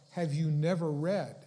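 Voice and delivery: "never" given firm, emphatic weight; stress on never. Retold or imitated. Preacher quoting Jesus to the Pharisees, "never" emphasized. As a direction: lean on "never" in the question. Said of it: "is emphasized".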